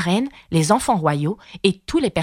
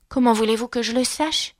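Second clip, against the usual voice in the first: put-on higher-pitched plucky girl; bold retort; 6 semitones higher than usual. A narrator's reading. Alice answers the queen, surprised by her own courage: bold retort. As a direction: answer back in a high girlish voice. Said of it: "surprise de son courage".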